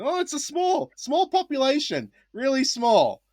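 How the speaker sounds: high, slow teaching voice stretching small; over-explain like to kids; mock teacher voice. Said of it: "So I'm like, going".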